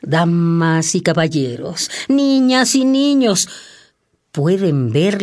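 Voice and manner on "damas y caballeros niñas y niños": booming circus barker call; ringmaster. Acted. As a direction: draw the crowd in like a ringmaster. Circus barker calling the audience.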